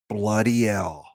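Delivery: badly faked Birmingham accent; mock Brummie accent. Streamer greeting Birmingham or Sheffield viewers, mock Brummie accent. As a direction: have a rough go at sounding Brummie. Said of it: "Brummy accent is".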